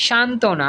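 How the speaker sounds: শান্তনা with no b sound; correct pronunciation. Shown as a demonstration. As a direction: say শান্তনা as shan-to-na. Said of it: "শান্তনা বলি".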